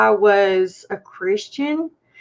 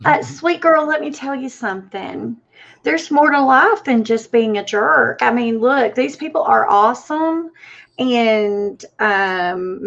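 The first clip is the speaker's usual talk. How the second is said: put-on sassy Southern accent. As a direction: talk down to her like a sassy Southern aunt, in a mild Southern accent. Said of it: "Why does that always sound better with a Southern accent".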